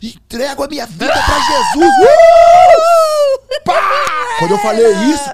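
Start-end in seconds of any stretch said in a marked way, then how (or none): 0.0-1.9 loud, high cry of surrender; impassioned full-voiced proclamation; shouting. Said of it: "Gritando no quarto hotel". 2.0-4.4 very high, loud whoop then a bang; shouted dramatic sound effect; explosive whoop. Retold or imitated. Acting out climax of shouted prayer.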